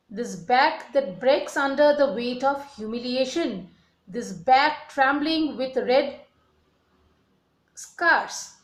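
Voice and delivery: reads the poem aloud with feeling; poem recital. Acted.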